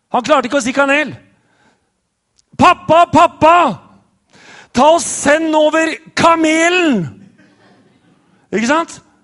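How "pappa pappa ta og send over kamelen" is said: loud, acted little-kid shouting. Retelling how he called out to his parents for his oatmeal; retelling his shout. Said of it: "Og så roper han ut".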